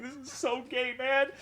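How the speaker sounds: very high, mocking whine of the crying guy; high put-on whiny gamer voice. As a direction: squeak it out like a sore loser mid-tantrum. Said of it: "He's like".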